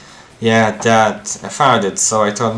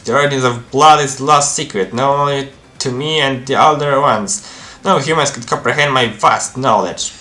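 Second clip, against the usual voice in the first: pitched-up, grandiose occult boaster with a chuckle; haughty demon devotee; 2 semitones higher than usual. Acted. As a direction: lord secret knowledge over mere mortals.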